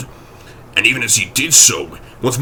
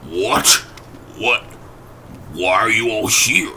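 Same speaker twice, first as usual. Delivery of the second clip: peevish. Acted. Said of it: "said the lawyer peevishly".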